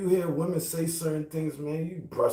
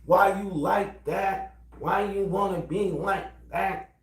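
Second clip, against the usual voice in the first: put-on higher, slow pleading girlfriend; mock girlfriend; 6 semitones higher, slower than usual. Girlfriend asking why he acts that way, high and slow. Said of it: "voicing the girlfriend".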